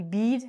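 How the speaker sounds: "bead" with a long E, as in see; wrong long E. Shown as a demonstration. Teacher shows learners the wrong bed, long E. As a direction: say "bead" as the mistaken reading of bed. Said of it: "If we said it like this".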